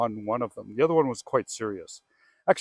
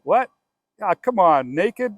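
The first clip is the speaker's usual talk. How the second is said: high, loud incredulous disbelief; shocked when the client says the tenant is naked; disbelieving what; 8 semitones higher, 8 dB louder than usual. Retold or imitated. Realtor on the phone reacting to the naked tenant, incredulous. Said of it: "And I went".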